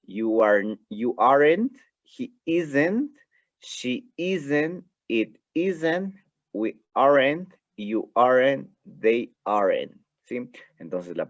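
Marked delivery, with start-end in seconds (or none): 0.0-9.9 "aren't" and "isn't" said higher and stressed; contracted negatives modelled. Shown as a demonstration. Teacher models "isn't" and "aren't" forms for class. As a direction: lift "he isn't" and "she isn't" clearly upward. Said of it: "En la última columna usted puede apreciar".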